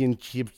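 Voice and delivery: "championships" garbled as cham-yun-chee-yip; mockingly mangle the end of "championships", no P; imitated mispronunciation. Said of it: "that's how he does it".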